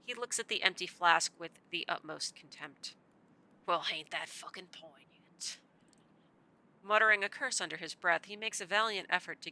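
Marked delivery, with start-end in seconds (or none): 3.7-5.6 put-on gruff old man. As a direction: play the weary old drifter, half whispering. Old man sneering at empty flask.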